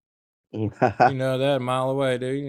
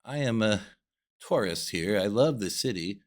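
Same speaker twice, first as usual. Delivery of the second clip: proper tourist voice. Pretend. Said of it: "I'd be like".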